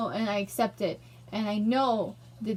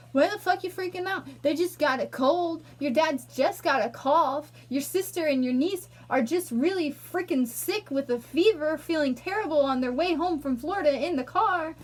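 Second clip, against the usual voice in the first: imagined critic. Retold or imitated. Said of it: "other people who would be like".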